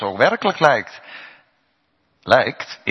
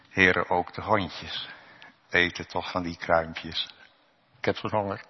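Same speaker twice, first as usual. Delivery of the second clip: pleading woman; 4 dB quieter than usual. Retold or imitated. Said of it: "ze vangt hem met zijn eigen woorden".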